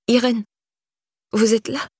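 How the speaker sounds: a small, timid voice at the door. A narrator's reading. Soaked girl timidly calling her neighbour, small timid voice. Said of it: "Puis une petite voix".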